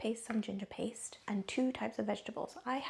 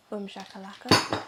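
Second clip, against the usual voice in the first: triumphant shout; 10 dB louder than usual. Pretend. Triumphant cooking exclamation.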